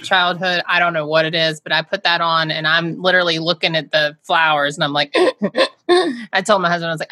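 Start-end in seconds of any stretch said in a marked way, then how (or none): 5.2-5.8 short panicky puffs; quick gasps of mounting panic; imitated panic breathing. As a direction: act out hyperventilating. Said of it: "started having a panic attack".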